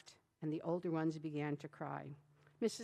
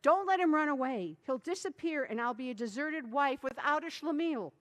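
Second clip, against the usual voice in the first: wife pleading; 6 semitones higher, 4 dB louder than usual. A narrator's reading.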